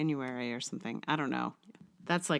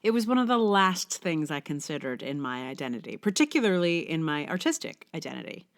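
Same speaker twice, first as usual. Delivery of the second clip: brighter, more animated reading voice than her chat; essay reading; 4 dB louder than usual. Acted. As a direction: read the essay out like a polished blog post. Reads her blog essay aloud.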